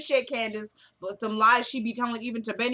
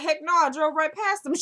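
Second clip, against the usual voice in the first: higher-pitched, animated retelling of a refusal; emphatic retold denial; 6 semitones higher, 4 dB louder than usual. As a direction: act out a brash "no way". Retold defiant phone reply.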